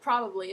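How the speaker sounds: probably with a broad Australian final vowel. Shown as a demonstration. Teacher showing how Australians say probably. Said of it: "If I say the word probably".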